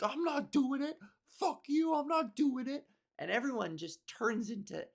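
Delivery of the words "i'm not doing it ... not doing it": higher, louder mocking of contestants refusing; mock defiant refusal. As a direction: throw a defiant no, half-hammed. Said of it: "shaking their heads like".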